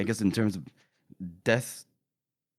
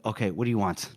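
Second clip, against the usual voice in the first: low, curt mock gruffness; 7 semitones lower, 5 dB quieter, faster than usual. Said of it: "Dogman's like".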